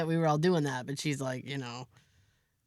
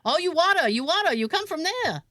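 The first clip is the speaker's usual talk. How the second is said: lightly mimicked handyman, pitched up; imitating Louis; 8 semitones higher than usual. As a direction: explain it as the handyman, higher voice. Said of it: "He goes".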